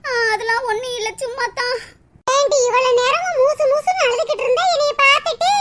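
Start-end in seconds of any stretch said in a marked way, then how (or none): 0.1-1.8 subdued, trying to hide crying; tearful denial. Acted. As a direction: brush it off quietly through tears. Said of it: "அழுதுகிட்டு கிடக்க". (அழுகையை மறைத்து மெல்ல மறுத்தல்)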